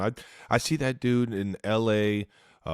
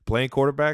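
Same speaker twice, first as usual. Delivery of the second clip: quarterback punched higher and louder; repeating playing quarterback for emphasis, louder and higher; stress on quarterback; 7 semitones higher, 4 dB louder than usual. Shown as a demonstration. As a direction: hit quarterback hard.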